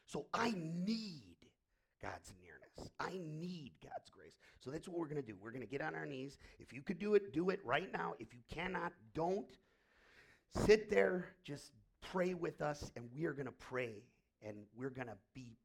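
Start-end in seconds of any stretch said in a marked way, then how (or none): 0.1-2.9 whispered need. Real, not acted. Building then whispering. 6.6-12.9 booming invitation to kneel down; preacher calling out to the congregation; loud call to kneel. Real, not acted. Pastor calls congregation to kneel.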